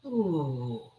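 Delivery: long, falling "ooh"; imitated focusing whoosh. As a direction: draw out a soft, sliding ooh. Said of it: "just kind of went".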